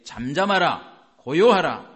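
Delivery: loud, slow command to the storm; commanding rebuke. Acted. Jesus commanding the wind and sea, loud and slow. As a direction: order the sea to be still, slowly.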